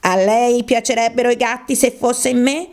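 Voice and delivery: mildly shrill mouse retort; high-pitched, emotional. Acted. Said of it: "con voce acuta e piena d'emozione".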